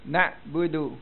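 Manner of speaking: "Nak budu" with a softened "d"; touch the "d" lightly in "Nak budu"; soft dal. Shown as a demonstration. Teacher demonstrates the letter dal, soft "d" in "Nak budu". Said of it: "kena lembut".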